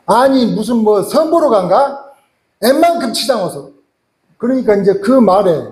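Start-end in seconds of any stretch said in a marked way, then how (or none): 0.1-3.7 sarcastic mother-in-law. Retold or imitated. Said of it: "또 장모님이 한, 한 수 더 거들죠".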